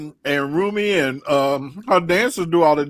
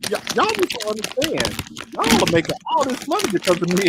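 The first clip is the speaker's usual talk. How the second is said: Trump impression; 5 semitones higher than usual. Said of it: "You're telling them".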